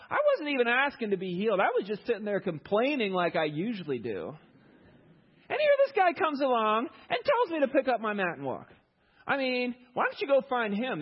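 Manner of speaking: high, loud, whining complainer passing the blame; whiny healed man. Retold or imitated. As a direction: whine it out like an ungrateful grumbler. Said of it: "He says".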